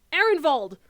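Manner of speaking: Highlander accent on "Arenvald", the R rolled and set far back in the throat. Shown as a demonstration. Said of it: "Kind of like what I was doing there".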